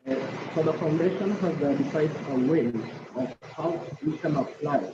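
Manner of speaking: muffled, as if through a hand; words blocked and dull. Real, not acted. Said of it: "you're a little bit muffled".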